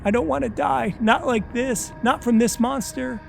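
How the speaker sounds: high, shouted pleas; terrified screaming; frantic begging. Acted. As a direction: beg frantically for life. Victim begging in panic.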